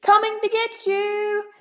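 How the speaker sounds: big, loud sing-song bear count; booming bear. Acted. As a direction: boom it out playfully like a huge bear. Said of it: "Boris boomed".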